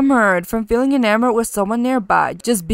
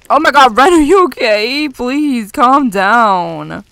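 alarmed pleading; 3 semitones higher, 7 dB louder, slower than usual. Real, not acted. Ren panicking by the fire.

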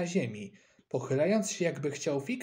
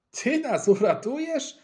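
high, louder mocking scoff; 11 semitones higher, 6 dB louder than usual. Boy scoffs at friend's boast, mocking and loud. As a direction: snort at his boast in disbelief. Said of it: "parsknął Eusebiusz".

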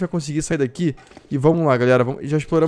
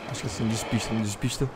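hushed, low, very soft voice; whispering while hiding; 5 semitones lower, 11 dB quieter, faster than usual. Real, not acted. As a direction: keep it hushed, hiding from danger. Hiding quietly from the wolf.

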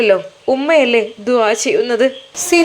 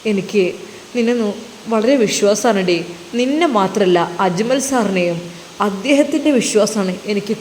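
lower, calm husband's voice; husband Sinan comforts his guilty wife, lower and calm; reassuring husband; 3 semitones lower than usual. Acted. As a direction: soothe her, he trusts her fully.

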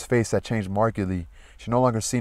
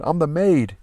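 higher, desperate insistence; wailing maid; 7 semitones higher, 3 dB louder than usual. A narrator's reading. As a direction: insist through a wail. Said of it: "she wailed".

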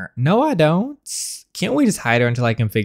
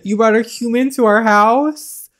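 high, loud, appalled mock queen; disgusted queen; 11 semitones higher, 5 dB louder than usual. The queen scolding her sons for bringing a human home, disgusted. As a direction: recoil at the very idea of a human. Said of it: "She looks disgusted".

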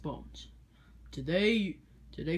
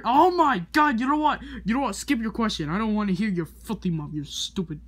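angry yell; 3 semitones higher, 5 dB louder than usual. Acted. Teacher yells at rude student.

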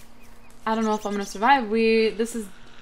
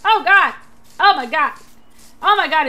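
panicked high screaming; being chased; 13 semitones higher, 14 dB louder than usual. Real, not acted. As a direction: scream in terror while fleeing. Monster chasing him in game.

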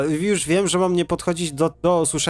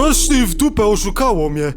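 high, loud cry of outrage; indignant outburst; 5 semitones higher, 5 dB louder than usual. Real, not acted. Gamer tricked by the game, indignant shout. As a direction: burst out loudly, feeling cheated.

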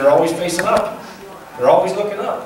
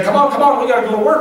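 imitating a traveler hurrying his porters; mock urging call; 7 semitones higher, faster than usual. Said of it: "He's like".

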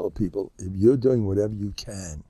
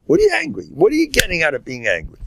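incredulous; 8 semitones higher, faster than usual. Acted. Rebuking the angry wife.

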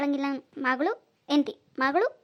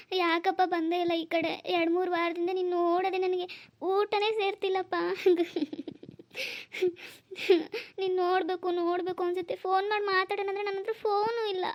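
milk the guilt with mild mock tears; fake crying. Grandmother fakes tears to her son on the phone, mild mock sobbing. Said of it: "phone ಕೊಟ್ಟಿದ ತಕ್ಷಣ ಹೆಂಗ್ ಹತ್ಕೊಂಡ್ ಡ್ರಾ ಮಾಡ್ತಾಳೆ".

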